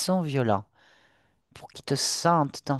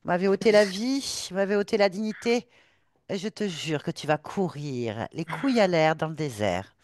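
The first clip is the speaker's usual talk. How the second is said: seething shrieking spirit; 3 semitones higher than usual. Acted. Ghost vows revenge.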